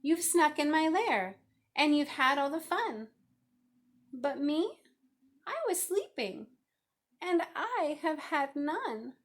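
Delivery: left-out bear whining to his guests; whiny bear. Acted. Bear complains.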